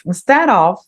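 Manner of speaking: Instead of with of as ov; careful pronunciation. Shown as a demonstration. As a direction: say Instead of, ending on a V. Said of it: "Ele tem som de V".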